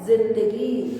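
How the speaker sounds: जिंदगी with z, zindagi; nukta z sound. Shown as a demonstration. Teacher saying जिंदगी with z for the class. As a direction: start जिंदगी with a buzzing z. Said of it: "जिंदगी में नुक्ता लगता है".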